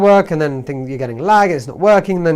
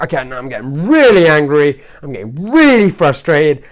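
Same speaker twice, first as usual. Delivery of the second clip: louder, with REALLY leaned on hard; retold rising anger; 5 dB louder than usual. Recounting a failed CD upload to viewers, retold rising anger. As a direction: re-enact mounting frustration, punching each "really". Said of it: "it's just driving me insane".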